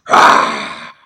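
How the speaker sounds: loud low raspy yell; over-the-top cartoon scream; mock scream. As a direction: let out a hammed-up villain shout. End of mock Vince bit.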